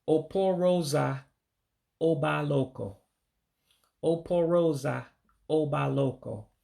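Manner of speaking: oporosa, oba loco in two careful chunks; model pronunciation. Shown as a demonstration. Teacher putting railroad tracks together, oporosa oba loco in measured chunks. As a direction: say oporosa, pause, then oba loco, clearly. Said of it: "to say it all together, you would say".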